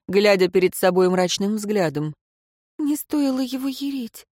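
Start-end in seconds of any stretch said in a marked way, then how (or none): 2.8-4.3 higher, softer tearful whimper; a wife sniffling in regret; a touch of a sob; sobbing. A narrator's reading. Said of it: "всхлипнула Ирейн".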